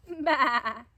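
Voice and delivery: loud grumpy bah. Acted. Gregory rejects his parents' breakfast, grumpy. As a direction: spit out a sulky bah.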